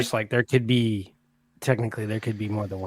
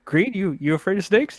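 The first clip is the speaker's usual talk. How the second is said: imitating Robert California; 9 semitones higher than usual. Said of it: "and he goes".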